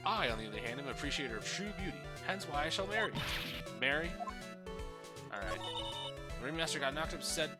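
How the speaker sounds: lovestruck boastful puppet; pompous puppet voice. Acted. Puppet boasts about love.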